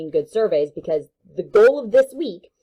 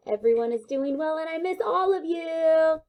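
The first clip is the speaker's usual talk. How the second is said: affectionate sign-off; 10 semitones higher than usual. Real, not acted. Affectionate sign-off to absent students.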